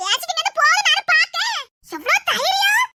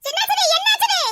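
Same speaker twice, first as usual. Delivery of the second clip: mock lament; 4 semitones higher than usual. Wife fakes distress.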